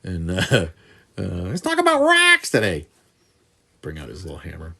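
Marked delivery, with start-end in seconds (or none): 1.2-2.9 put-on slow, drawn-out, very high Wisconsin accent; Wisconsin professor. Professor opening a geology class, high Wisconsin accent. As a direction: stretch "rocks" in a squealed Wisconsin caricature. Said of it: "a professor that used, that used to say".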